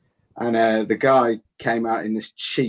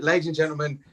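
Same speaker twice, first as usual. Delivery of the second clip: imitating a raised, grand club announcer; mock compere announcement; 6 semitones higher than usual. Compere introducing Tom to eight people, mock grand announcement. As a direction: sell the made-up name like a big reveal.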